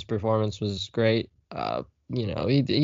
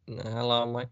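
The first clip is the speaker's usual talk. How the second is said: softer second go at amateur British; attempted British accent; 7 dB quieter, slower than usual. Shown as a demonstration. Practising a greeting to himself, in a bad British accent. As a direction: try the British accent quietly, broad vowels. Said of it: "that's my British accent".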